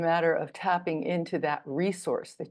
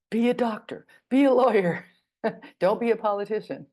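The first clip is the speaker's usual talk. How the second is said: louder, higher voice of others giving orders; mock bossy advice; 4 semitones higher, 5 dB louder than usual. Others telling us what to do with our lives, mock bossy. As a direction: hand down life orders in a playful imitation.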